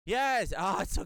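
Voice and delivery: high joyful yelp; excited. Real, not acted. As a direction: burst out with delight. Excited at the transmission.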